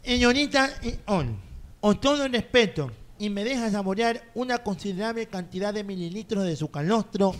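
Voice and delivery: lightly formal, courtly recital; mock-poetic recitation. Guest reciting his flirty post, mock-poetic declamation. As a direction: declaim a flowery love poem. Recites flowery poem aloud.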